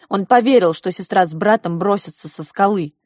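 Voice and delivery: ordinary delivery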